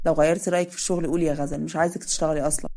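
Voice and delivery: easygoing older man, lightly voiced; lightly voiced Adham.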